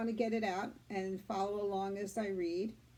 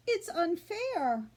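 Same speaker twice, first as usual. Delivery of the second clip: pleading; 6 semitones higher, slower than usual. Acted. Fern sobbing to father.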